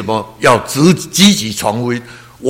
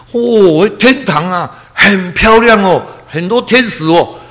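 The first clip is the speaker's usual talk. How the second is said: higher, slow, lightly voiced dying mother in wonder; mother's awed words; 7 semitones higher, 3 dB louder, slower than usual. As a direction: gently echo her amazement at heaven. Mother describes heaven to son. (轻轻模仿母亲惊叹天堂)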